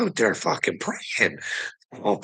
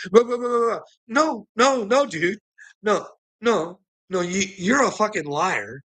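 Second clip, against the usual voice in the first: mocking angry preacher; 6 semitones higher than usual. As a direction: bluster like a caught liar. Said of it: "He didn't like that".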